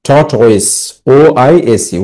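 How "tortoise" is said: "tortoise" built from two syllables, tort and ois; pronunciation demonstrated. Shown as a demonstration. Teacher showing students how to pronounce it, "tortoise" as tort plus ois. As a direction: model "tortoise" with a falling finish. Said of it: "উচ্চারণ করবে কিভাবে".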